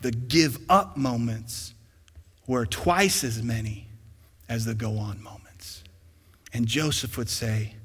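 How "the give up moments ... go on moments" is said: slow, deliberate restatement; slow repeat. Shown as a demonstration. Pastor repeating the point for the church, slow. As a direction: lay each phrase down slowly. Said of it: "I want you to hear this".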